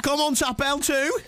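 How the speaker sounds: high, slow mock-French pet talk; playful hammed-up French. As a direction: draw out schoolroom French to a cat. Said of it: "They must be French".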